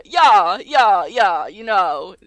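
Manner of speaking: drawn-out posh English "yah"; mock a posh Cambridge student; posh student accent. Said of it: "the fucking Cambridge students".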